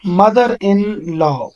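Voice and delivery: very slow, almost whispered; slow careful reading. Shown as a demonstration. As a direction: spell out mother in law slowly. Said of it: "آپ دیکھیں ذرا غور سے".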